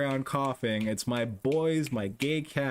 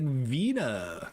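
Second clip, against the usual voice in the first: drawn-out word in a mock German accent; imitated German accent. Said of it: "like, a German accent".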